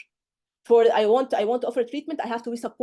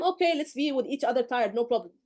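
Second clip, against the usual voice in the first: mock tired candidate. Tutor imitates a tired examiner, mildly weary. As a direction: sound like you have given up. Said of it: "tired already like him".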